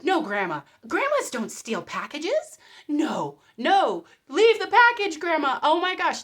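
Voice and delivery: loud, high-pitched pleading with Grandma; loud pleading shout. Retold or imitated. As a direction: yell at the screen to stop her. Pleading with grandma thief on video.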